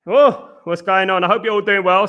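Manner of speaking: breathless after running around; out of breath. Real, not acted. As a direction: talk while catching your breath. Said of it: "So let me catch my breath".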